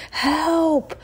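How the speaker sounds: high, loud panicked cries; whining yell for help. Acted. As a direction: wail for the master. Bully yells for help.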